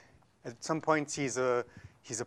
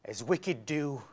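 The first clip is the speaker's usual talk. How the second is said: audition monologue. Acted. Actor auditioning with a curse for the coach, theatrical. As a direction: deliver a verse curse, landing hard on the last words.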